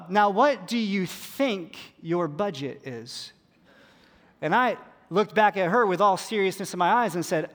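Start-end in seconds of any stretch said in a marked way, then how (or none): 0.1-3.3 slow pointed question. Retold or imitated. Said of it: "she said".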